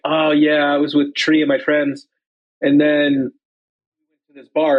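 imitating a light, in-and-out Irish accent; touch of Irish drifting into American English; slipping Irish accent. Podcaster imitating the bartender sneaking in and out, light Irish accent. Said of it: "Irish accent to, like, English".

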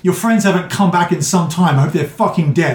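spiteful captive behind a door; bound prisoner voice. Acted. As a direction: sneer through the locked door. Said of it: "You hear".

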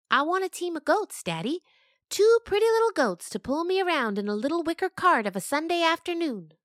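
put-on high, loud pleading child voice; sweet little girl. Daughter asking her father for goats, high and sweet. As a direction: ask Daddy like a spoiled little girl.

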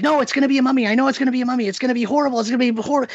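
mock-fearful teen whine; imitating a scared kid. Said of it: "'cause he's afraid of this mummy".

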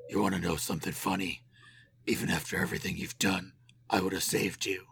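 a hint of a dark villain; lightly voiced sinister Joker. Shown as a demonstration. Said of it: "That wasn't a great Joker".

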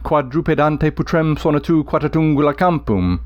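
Latin line beating like hoofbeats; galloping recitation. Shown as a demonstration. Teacher reading Virgil's hoofbeat line, rhythmic. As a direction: let the dactyls gallop. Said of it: "listen again to the other one".

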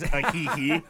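light sung-out "hee hee" yelp; a pop star. Retold or imitated. Pitching a video edit to friends, light impression of the singer's squeal. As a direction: toss off the pop star's hee-hee with a laugh. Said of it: "replace the singer's".

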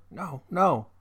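a hint of a German-accented mother; German immigrant mother. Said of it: "this is in this dialect".

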